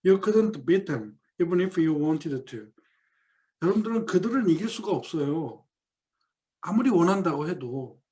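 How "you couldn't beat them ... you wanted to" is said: 1 slow read quote. Acted. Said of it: "사이먼 스팀슨이 하는 말입니다".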